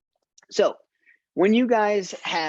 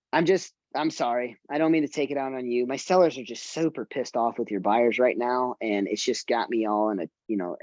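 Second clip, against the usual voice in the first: calmed down apology; 3 semitones lower than usual. Retold or imitated. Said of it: "they'll calm down and say".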